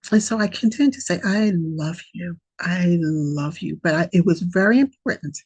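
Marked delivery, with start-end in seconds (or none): 1.2-3.8 slow, deliberate loving words; mean every word, slowly; slow, purposeful self-love mantra; intention and intensity. Shown as a demonstration. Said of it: "with the intention and the intensity".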